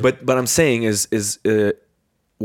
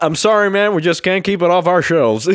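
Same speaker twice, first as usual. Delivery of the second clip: high, hammed-up record seller; mock old-timey movie voice; a band; 6 semitones higher, 3 dB louder than usual. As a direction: pitch it up like an old movie shopkeeper. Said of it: "It's like a band".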